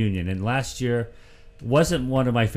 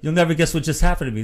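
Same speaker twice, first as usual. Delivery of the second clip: high-pitched, mildly amazed greeting; quoted excitement, pitched up; retold amazement; 5 semitones higher, 4 dB louder than usual. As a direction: act out running into someone unbelievable. Acted excited greeting of ballplayer.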